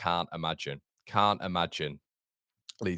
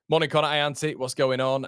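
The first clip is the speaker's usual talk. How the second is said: high, loud cheery shout-outs; excited greeting; 8 semitones higher, 8 dB louder than usual. Real, not acted. Greeting viewers in live chat.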